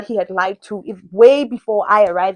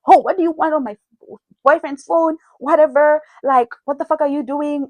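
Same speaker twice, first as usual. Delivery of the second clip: mimicked hostile girlfriend; 5 semitones higher than usual. Girlfriend answering his phone, mock hostile higher. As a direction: imitate her picking a fight. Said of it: "This time, she's fighting me".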